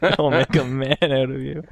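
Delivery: quoting the tagline through laughter; mock it while laughing; giggling echo of the slogan; laughing repeat. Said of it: "repeats line laughing".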